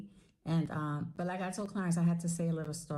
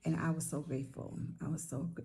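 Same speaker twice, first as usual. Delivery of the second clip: getting emotional; 2 semitones lower, 4 dB quieter than usual. Real, not acted. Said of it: "oh, I'm getting emotional".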